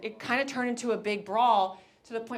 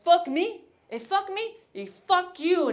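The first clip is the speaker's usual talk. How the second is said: much higher, loud offended retort; indignant pushy guy; 9 semitones higher, 5 dB louder than usual. Retold or imitated. Rejected guy to the sister, higher outraged retort. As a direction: throw it back at her, outraged. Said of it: "the guy was like".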